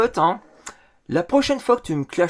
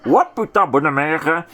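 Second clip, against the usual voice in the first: imitating Maïté; 4 semitones lower, 3 dB louder than usual. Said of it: "imiter Maïté".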